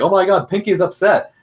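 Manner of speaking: high, slow worried exclaim; alarmed Twilight. Retold or imitated. Twilight noticing Pinkie upset, high slow alarm. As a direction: gasp out the worry, drawn out. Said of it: "is like".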